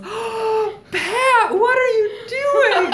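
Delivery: high, loud, slow teasing squeal; sing-song mock tease; teasing coworker. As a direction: call it out like a coworker catching you red-handed. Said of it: "and she goes".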